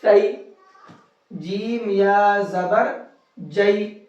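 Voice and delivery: slow, level, drawn-out letter spelling with a rise on زبر; measured Qaida drill, pausing before each blended syllable; slow practice recitation. Shown as a demonstration. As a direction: chant each spelling slowly for pupils to repeat. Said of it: "میرے ساتھ ساتھ اسی طرح سے پڑھتے رہیے گا".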